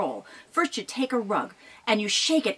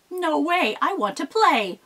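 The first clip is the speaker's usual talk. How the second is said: put-on higher, louder cheeky kid goat; little goat; 7 semitones higher, 4 dB louder than usual. Little goat defying Mama Troll. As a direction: sass her like a small stubborn kid. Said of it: "Billy Goat ... said".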